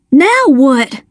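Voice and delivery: mildly breathless; gasped question. A narrator's reading. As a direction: ask it with a touch of a gasp. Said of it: "Dale gasped".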